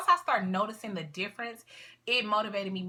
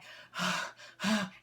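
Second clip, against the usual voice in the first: mock out-of-breath sigh. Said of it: "I could walk up flights of stairs and not be like".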